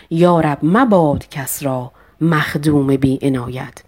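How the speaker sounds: poetry recitation. Shown as a demonstration. Teacher reciting Hafez verse.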